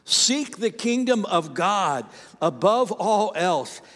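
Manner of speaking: slow, measured group reading; reading scripture together. Shown as a demonstration. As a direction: read slowly in unison with the congregation. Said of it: "Read it out loud with me".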